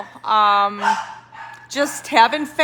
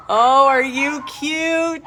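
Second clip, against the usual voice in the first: talking to a dog; slower than usual. Real, not acted. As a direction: coo at the puppy.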